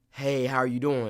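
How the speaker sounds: audible intake, then the line; demonstrated actor's breathing habit; gasp before line. Shown as a demonstration. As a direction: suck in a breath before speaking.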